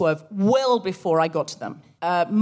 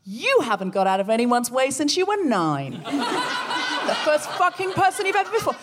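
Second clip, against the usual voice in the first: laughing; 5 semitones higher than usual. Retold or imitated. Laughing retort to the guy.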